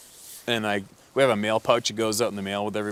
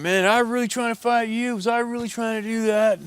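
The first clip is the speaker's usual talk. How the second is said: much higher, loud, pleading apology; sobered-up apologetic junkie; 14 semitones higher, 5 dB louder than usual. Retold or imitated. Junkie hunter apologizing to the other hunter, high loud pleading. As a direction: plead way up high like a crushed addict.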